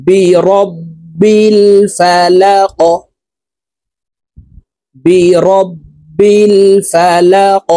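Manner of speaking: الفلق ending with a bouncing stopped qaf; qalqalah on qaf. Shown as a demonstration. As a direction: push the final qaf of الفلق up with a jolt. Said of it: "দেখুন, এভাবে পড়তে হবে". (الفلق-এর কফ ধাক্কা দিয়ে সাকিন)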